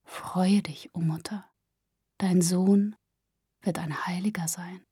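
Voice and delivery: low, hushed apparition voice; speaking without moving lips. A narrator's reading. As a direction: murmur it softly, as if the lips barely move. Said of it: "ohne die Lippen zu bewegen".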